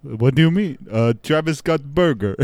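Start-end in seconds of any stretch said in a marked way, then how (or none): 1.2-2.4 put-on a light, fairly standard Jamaican accent. A customer praises the retry as a pretty standard Jamaican accent. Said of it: "pretty standard, uh, accent there".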